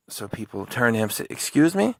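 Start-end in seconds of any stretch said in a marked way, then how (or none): 1.3-1.9 offended excuse me. Retold or imitated. People turn to him, offended.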